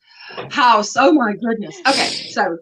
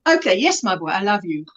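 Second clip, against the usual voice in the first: tender son; 6 semitones lower than usual. Retold or imitated. Voicing son's reply to mother.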